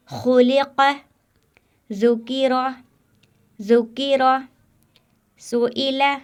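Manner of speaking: each word read out high and clear, once and again; reading drill. Shown as a demonstration. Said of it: "ऐसे पढ़ना".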